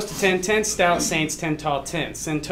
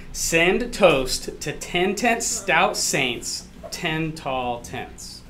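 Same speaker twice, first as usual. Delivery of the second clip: slow, careful tongue twister; slowly; slower than usual. Shown as a demonstration. Math teacher previewing a tongue twister for the crowd, slowly. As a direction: spell it out slowly, word by word. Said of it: "Let me tell it slowly first".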